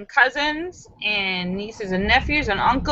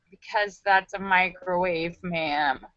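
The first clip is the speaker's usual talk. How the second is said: lower, much softer dry delivery; deadpan punchline; 4 semitones lower, 7 dB quieter, slower than usual. Acted. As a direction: drop the punchline quietly.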